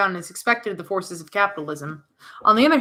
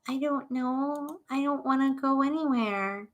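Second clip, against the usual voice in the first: put-on scared child; 3 semitones higher, 6 dB quieter, slower than usual. Young Alex reluctant in dark mall.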